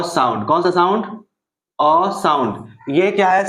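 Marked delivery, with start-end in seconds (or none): 1.8-2.1 अ as a short open vowel; short vowel sound. Shown as a demonstration. Teacher repeating the short sound for students, short vowel अ. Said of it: "short sound".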